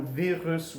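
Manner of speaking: French "virus" ending in a sounded S; don't drop the S at the end of "virus"; slow French "virus" with audible final S; pronounced final S. Shown as a demonstration. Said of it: "we're gonna pronounce the S".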